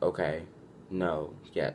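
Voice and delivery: low, flat, dry short answers. Acted. Giving dead-end answers to a yes or no question, flat and dry. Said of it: "very flat, very dry".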